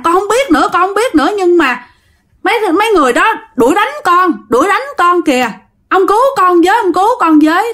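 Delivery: put-on high, pleading voice of a scared girl; frightened pleading. Grandma begs the old man for rescue, frightened and pleading. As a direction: beg the old man to save you.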